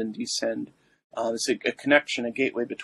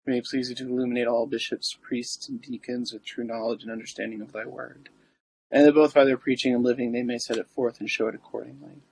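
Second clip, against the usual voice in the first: prayer. Acted. Recites the litany.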